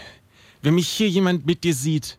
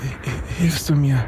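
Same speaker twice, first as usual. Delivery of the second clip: stammering; 5 semitones lower than usual. Acted. Weak, stammering survivor.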